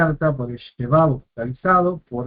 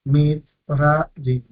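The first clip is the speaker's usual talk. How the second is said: MIT, RA, YIM with a break after each syllable; much slower than usual. Shown as a demonstration. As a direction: split "Mit, ra, yim" into three separate syllables. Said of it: "y tercer sílaba".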